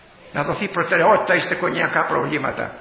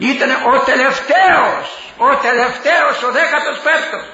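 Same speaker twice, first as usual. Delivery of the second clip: laughing punchline; 6 semitones higher than usual. Real, not acted. Punchline about fifteenth child.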